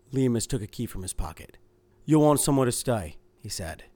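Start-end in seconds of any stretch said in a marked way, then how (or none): 2.0-3.2 flat, closed-off stonewalling tone. Acted. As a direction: say it flat, giving nothing away. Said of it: "His voice sounded flat".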